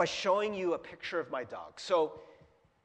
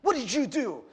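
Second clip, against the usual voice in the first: a mild retold scolding, slightly louder; scolding the dog; 4 semitones higher, 5 dB louder than usual. Owner scolding Lucky over the bathroom mess, mildly retold. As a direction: half-heartedly replay telling off the dog. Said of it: "And I was so angry".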